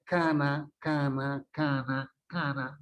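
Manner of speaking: "cana" repeated with vowels through the nose; nasal-resonant demo of "cana"; nasalized vowels. Shown as a demonstration. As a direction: let the n of "cana" colour both vowels nasal. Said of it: "Todo sale por la cavidad nasal".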